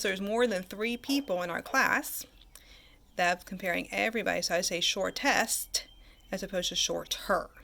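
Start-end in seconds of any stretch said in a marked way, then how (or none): 4.8-5.8 SHORTEST slowed, with its -est ending set apart; stressed ending. Shown as a demonstration. Teacher contrasting endings for the class, stressed ending. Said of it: "E R as opposed to E S T". 6.8-7.5 "shorter" with the -er ending set apart; stressed ending. Shown as a demonstration. Teacher contrasting endings for the class, stressed ending. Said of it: "E R as opposed to E S T".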